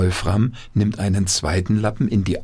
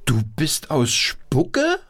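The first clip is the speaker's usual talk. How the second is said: puppet voice; 7 semitones higher, slower than usual. Acted. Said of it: "wendet sich an das Mädchen".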